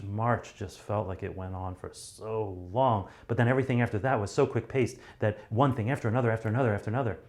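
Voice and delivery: starts slow and drawn out, then races; long and slow, building to quick-paced; slow then speeding up. Shown as a demonstration. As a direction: drag the first part, then rush the rest. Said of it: "You see how I was so long and slow and monotone? And then I started picking up the pace".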